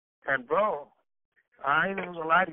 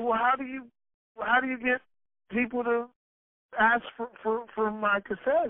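pleading question; 6 semitones higher than usual. Retold or imitated. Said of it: "I said".

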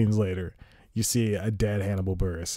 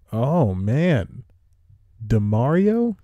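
much higher, louder disbelieving cry of the name; shocked; 4 semitones higher, 7 dB louder, much slower than usual. Real, not acted. Sees a guy leave the show.

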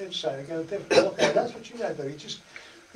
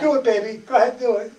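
coaxing mother; 5 semitones higher, 8 dB louder, faster than usual. Retold or imitated. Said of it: "And she says".

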